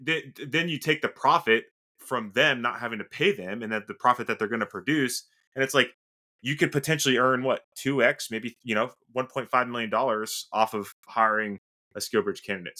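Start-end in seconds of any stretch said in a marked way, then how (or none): 5.5-12.8 breathless, rushing through excitement; out of breath. Real, not acted. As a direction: talk while running out of breath. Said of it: "I run out of breath there".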